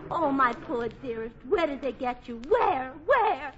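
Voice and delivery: overacted worried lover; hammed-up anguish. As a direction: press him frantically like a stage heroine. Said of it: "gamut of emotions".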